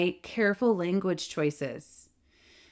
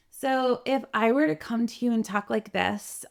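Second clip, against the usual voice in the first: higher, younger-sounding voice; girlish, higher-pitched speaking voice; youthful sound; 4 semitones higher than usual. Shown as a demonstration. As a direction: sound younger than you are. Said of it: "I'm gonna sound a lot more youthful".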